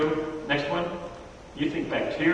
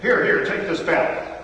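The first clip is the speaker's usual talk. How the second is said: mock-indignant, louder snap to attention; retold angry outburst; 4 semitones higher, 4 dB louder, slower than usual. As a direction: act out a flustered, angry refusal. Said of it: "He got emotional. He's like".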